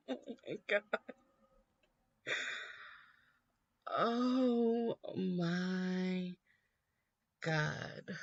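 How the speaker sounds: breaking up laughing, voice cracking; laughing in disbelief. Real, not acted. Vlogger cracking up at Romney's hot dog quote, laughing. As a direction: laugh through it helplessly. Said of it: "laughing in disbelief at the quote".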